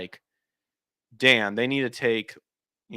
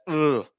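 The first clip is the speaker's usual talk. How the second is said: disgusted ugh; 4 semitones higher than usual. Retold or imitated. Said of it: "I watched the trailer and I said".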